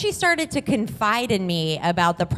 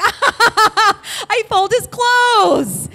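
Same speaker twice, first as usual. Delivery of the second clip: very high, loud, drawn-out cheer; fake friendly employee; 13 semitones higher, 6 dB louder, much slower than usual. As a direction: laugh it off as the harmless help, hammed up. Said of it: "real friendly, like, I'm just".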